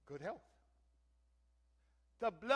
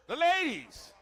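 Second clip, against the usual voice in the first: playful flirt; 11 semitones higher, 13 dB louder, much slower than usual. Acted. Flirting aside to the ladies.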